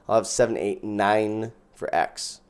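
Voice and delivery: mock German nine; super German. Real, not acted. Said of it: "I got super German on that one".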